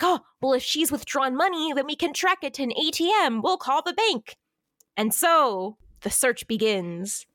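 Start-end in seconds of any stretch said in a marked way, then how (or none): 0.0-4.4 eager planning. Retold or imitated. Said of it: "they're like".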